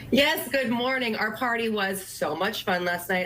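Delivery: slightly hoarse, tired voice; losing her voice. Real, not acted. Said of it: "I'm also losing my voice a little".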